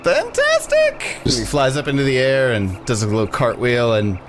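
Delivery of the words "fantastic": extremely high, slow and thrilled; ecstatic pixie. Acted. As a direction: cry it out like a delighted tiny fairy. Pixie overjoyed.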